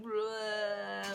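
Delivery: mock zombie noise. Actors jumping out of the cabinet, mock zombie noise. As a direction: lurch out like a zombie. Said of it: "like a zombie".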